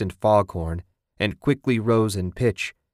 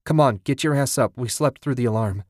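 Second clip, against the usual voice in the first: urgent, annoyed; 4 semitones higher than usual. Acted. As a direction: hurry him out of bed, exasperated. Wife urging him awake.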